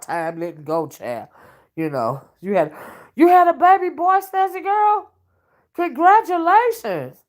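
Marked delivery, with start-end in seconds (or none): 3.1-7.2 high, loud and delighted; thrilled shriek of congratulations to a new mom; excited congratulations. Real, not acted. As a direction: burst out with joy at the news. Hearing a viewer had a baby.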